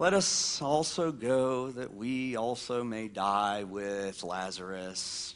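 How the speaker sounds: very low, hopeless, gloomy, defeatist put-on mutter. Speaker acting out how Thomas said it to the disciples: Thomas's words, mock-gloomy. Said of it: "the way that Thomas probably said this".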